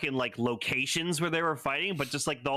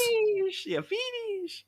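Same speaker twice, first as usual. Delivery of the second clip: belt announcer voice; slower than usual. Retold or imitated. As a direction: bark it like a henshin belt. Imitating the belt's finisher call.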